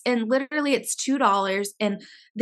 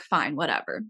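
low, quieter, fed-up brush-off; resigned dismissal; 8 semitones lower, 5 dB quieter than usual. Retold or imitated. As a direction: retell it as a grudging give-up. Retold giving up with the clinic.

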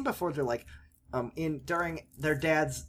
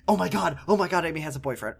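mock gossip; 3 semitones higher, faster than usual. Acted gossiping family reaction.

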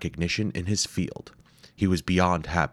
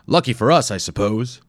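lightly voiced grudging professor; 5 semitones higher, 7 dB louder than usual. Wimple grudging.

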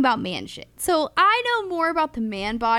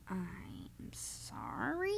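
mock sympathy; 16 dB quieter, much slower than usual. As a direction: say sorry with faked sympathy. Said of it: "just like that".

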